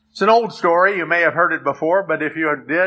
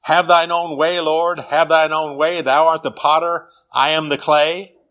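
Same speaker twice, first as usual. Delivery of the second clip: reciting hymn verse. Shown as a demonstration. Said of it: "Words like verse one".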